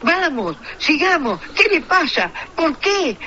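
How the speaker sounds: mock-frantic radio commentator. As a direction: rant like a frantic sports announcer. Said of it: "vos no sabés que venía y decía".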